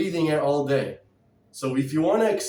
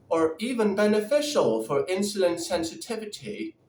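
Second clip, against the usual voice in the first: put-on British accent. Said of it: "I'll do the British accent".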